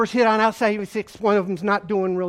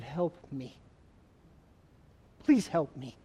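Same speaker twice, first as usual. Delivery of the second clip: weak plea for help; 7 semitones lower, 10 dB quieter than usual. Retold or imitated. Injured officer calling dispatcher.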